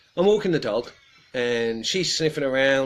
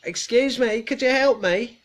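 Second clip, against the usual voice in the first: put-on higher, thin old woman's voice; imitating old lady; 12 semitones higher, 5 dB louder than usual. Retelling a hidden old lady calling for help, mock frail. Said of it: "this voice says".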